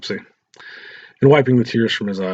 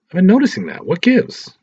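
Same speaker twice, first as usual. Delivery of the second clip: Lisa's teasing voice; 10 semitones higher, 5 dB louder than usual. Acted. Lisa teasing her boyfriend.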